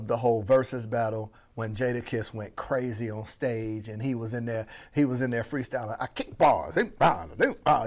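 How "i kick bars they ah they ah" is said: imitated New York rapper freestyle, slightly lower; New York rapper accent. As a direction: put on a rough attempt at a New York rap accent. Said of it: "that was my accent".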